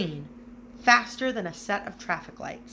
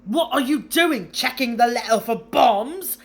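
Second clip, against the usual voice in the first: loud, higher, pleased with his own joke; mocking joke; 5 semitones higher, 9 dB louder than usual. A narrator's reading. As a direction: jeer at the boy like a smug uncle. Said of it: "He chuckled at his own joke".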